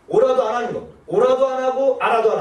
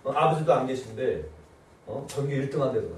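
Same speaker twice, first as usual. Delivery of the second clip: shrill scolding mother, rising to a yell; nagging mother; 6 semitones higher than usual. Retold or imitated. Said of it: "엄마가". (딸을 비교하며 다그치는 엄마, 점점 높고 크게)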